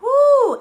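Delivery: high loud whoop on the exhale; release whoop. Real, not acted. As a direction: let out a joyful woo. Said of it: "exhale release".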